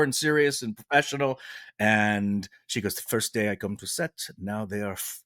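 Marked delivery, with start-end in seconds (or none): 3.0-5.2 French Canadian complaint, building louder and higher; French Canadian accent. Retold or imitated. Actress complaining about her hair, French Canadian accent. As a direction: grumble with French Canadian vowels and dropped h. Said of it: "she was not happy".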